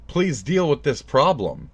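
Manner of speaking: a mild mock scream, drawn out; retold screamed plea. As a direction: plead it slowly, without really yelling. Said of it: "we are screaming".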